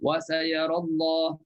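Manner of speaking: tajwid recitation. Shown as a demonstration. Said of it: "Kalau kita waqaf, boleh".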